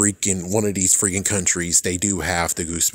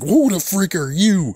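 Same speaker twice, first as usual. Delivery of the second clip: much higher shocked squeak; mock shock; 11 semitones higher, 4 dB louder than usual. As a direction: squeak at an unknown card showing up. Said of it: "It's like".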